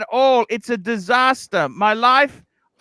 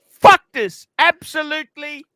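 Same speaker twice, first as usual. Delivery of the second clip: frustrated outburst; 4 semitones higher, 4 dB louder than usual. Real, not acted. Venting frustration.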